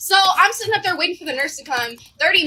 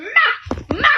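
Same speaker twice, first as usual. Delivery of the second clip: high-pitched bursts of mock impact; imitated hit noises; 8 semitones higher than usual. Michaela dragging nurse by the hair, imitated hit noises. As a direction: punch out each noise sharply.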